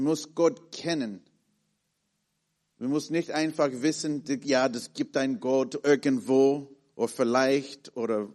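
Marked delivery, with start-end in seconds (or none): none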